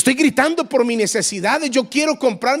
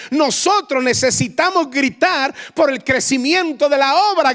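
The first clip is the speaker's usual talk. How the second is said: ordinary delivery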